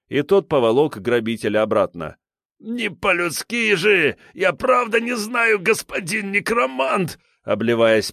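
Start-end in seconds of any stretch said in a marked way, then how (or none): 2.6-7.2 high slow desperate wail; wailing thug. A narrator's reading. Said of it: "завопил предводитель".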